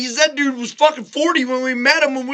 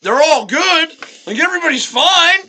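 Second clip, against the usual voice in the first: higher-pitched, blithe dismissal; breezy reassurance; 5 semitones higher than usual. Retold or imitated. Kid reports friends' car crash as no big deal, breezy reassurance. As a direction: wave off the alarm.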